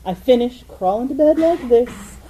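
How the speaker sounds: a hint of drowsy, acting out going to bed; sleepy reenactment. Inventor acts out building the clank, then going to bed, lightly sleepy. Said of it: "acting out last night".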